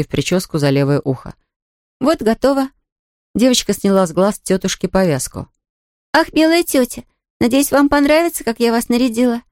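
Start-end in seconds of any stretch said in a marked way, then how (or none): 2.0-9.4 put-on high, bright girl's voice, teasing; a playful child keeping a surprise; little girl Pollyanna. Girl teasing her blindfolded aunt, high playful voice.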